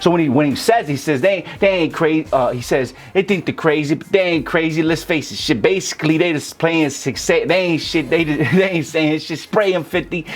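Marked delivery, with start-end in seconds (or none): 1.2-2.3 higher-pitched quote, stressing "ain't" and "crazy"; stressed syllables. Retold or imitated. Rap coach imitating a rapper's delivery, stressed syllables. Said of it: "the way that he says it and then he stresses". 3.1-10.3 rhythmic verse with "crazy", "basically", "spraying" stressed on the A; the rapper's stressed syllables. Retold or imitated. Rap coach showing how he says it, stressed syllables. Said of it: "the way that he says it and then he stresses".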